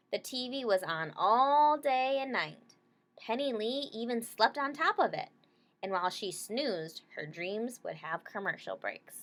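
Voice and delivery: clear, gentle picture-book read-aloud; reading to children. Acted. Teacher reading a picture book to her class, gentle read-aloud.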